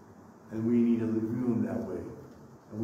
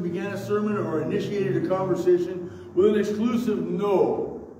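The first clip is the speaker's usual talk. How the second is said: higher, louder pulpit delivery; emphatic preaching; 9 semitones higher, 6 dB louder than usual. Real, not acted. Pastor arguing about the blind man's guilt, emphatic preaching. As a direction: drive the argument home to the congregation.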